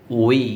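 "we" drawn out as one deliberate syllable; isolated, stretched demo of "we"; model pronunciation. Shown as a demonstration. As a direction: show exactly how "we" sounds, on its own. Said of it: "এরকম".

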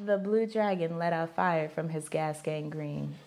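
deadpan challenge read. Real, not acted. Repeating the phrase for the guessing partner, deadpan. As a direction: recite it low and evenly.

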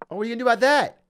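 loud, high taunt. Real, not acted. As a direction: throw it at the opponent as a challenge. Taunts the bot after a move.

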